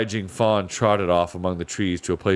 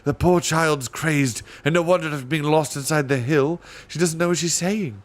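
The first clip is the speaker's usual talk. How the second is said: knowing panther; 7 semitones higher than usual. A narrator's reading. Panther explains.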